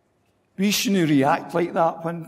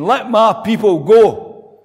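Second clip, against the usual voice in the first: slow, louder, commanding; bold Moses; 3 semitones higher, 5 dB louder, slower than usual. Retold or imitated. Moses before Pharaoh, slow bold command. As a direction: proclaim it like a fearless prophet. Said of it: "in front of Pharaoh saying".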